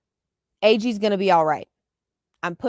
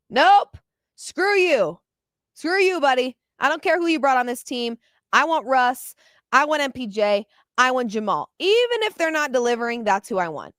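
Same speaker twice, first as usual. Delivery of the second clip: mock defiant coach; 3 semitones higher than usual. Host imitates the coach snubbing the GM, mock defiant. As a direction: snap back like a stubborn coach, lightly played.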